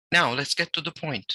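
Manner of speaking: deliberate dramatic read, stopping for effect; read with pauses and emphasis. Shown as a demonstration. Teacher reading a text aloud with deliberate pauses and emphasis. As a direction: land it like a speech opener. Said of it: "if you noticed, I stopped at certain points".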